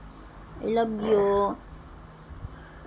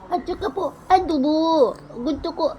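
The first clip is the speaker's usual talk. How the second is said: lightly voiced child, higher and pleading; child's prayer voice; 3 semitones higher than usual. Mother voicing her sick child praying, mildly higher and pleading. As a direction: plead with the Lord like a little one begging to get well.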